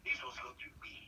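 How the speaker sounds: very high mock woman's complaint; female agent voice. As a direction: squeak it like an annoyed agent.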